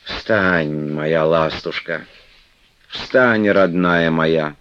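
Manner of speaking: медленно и ласково; утешить любимую, нежно. Acted. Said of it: "нежным голосом". (Манефа нежно поднимает Флёнушку)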